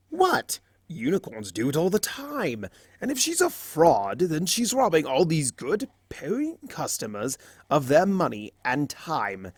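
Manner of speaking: high, wheedling mock innocence; innocent Discord. Discord pleading his case to Fluttershy, mock innocent. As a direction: play innocent, eyes big and shiny.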